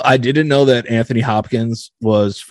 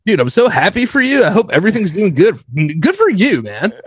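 higher, hammed-up supernice bro; fake nice bro; 6 semitones higher than usual. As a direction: gush like a fake friendly host. Mock nice-guy podcast persona.

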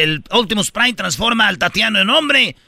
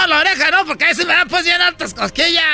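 giggling; 9 semitones higher than usual. Acted. Rancher ticklish, giggling.

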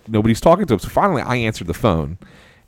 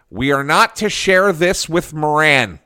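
mock declaration; 6 semitones higher, slower than usual. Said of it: "makes a declarative statement".

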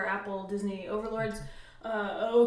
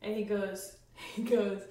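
usual speaking voice

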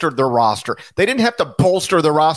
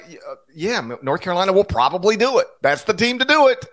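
mock prediction; 9 semitones higher than usual. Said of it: "We were like".

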